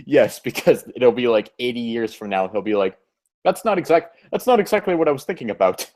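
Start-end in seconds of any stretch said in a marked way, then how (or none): 3.4-5.9 higher-pitched, badly faked British accent; mock British voice for a quoted reply; horrible British accent. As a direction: put on a hammy, unconvincing British accent. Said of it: "sorry for my horrible British accent".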